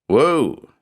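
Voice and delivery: sudden high whoa; jolted by the collision; startled blurt. A narrator's reading. Photographer bumped into the detective, startled whoa. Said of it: "the man blurted in a broad Geordie accent".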